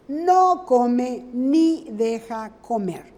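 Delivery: slow, with "No" punched at the start; stress on NO. Shown as a demonstration. Teacher repeating the proverb slowly, hitting "No". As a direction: lean on "No" and let the rest fall. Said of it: "la negación copulativa es ni".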